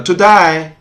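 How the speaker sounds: put-on "to die" in an Australian accent, the ay of today turned into eye; Australian twang, "today" said like "to die"; imitating an Australian accent. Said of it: "Sounds like".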